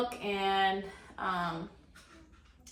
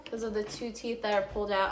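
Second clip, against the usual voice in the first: slightly slurred, sore mouth; talking after tooth extraction. Real, not acted. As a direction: speak like teeth were just pulled. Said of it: "I am talking weird".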